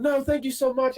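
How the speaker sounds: high, gushing lady voice; mock high woman's voice; grateful woman. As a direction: play the thankful neighbour.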